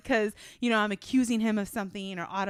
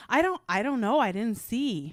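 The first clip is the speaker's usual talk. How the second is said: mock kid denying; 3 semitones higher, 5 dB louder than usual. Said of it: "I'm like".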